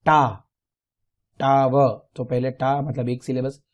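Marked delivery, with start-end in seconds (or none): 0.0-0.5 "टा" alone, loud and separate; syllable demo. Shown as a demonstration. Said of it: "आपकी टंग कितनी बार touch होती है". 1.4-2.1 "टाव" broken into टा and व; two separate beats on "टाव"; syllable demo. Shown as a demonstration. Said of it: "आपकी टंग कितनी बार touch होती है".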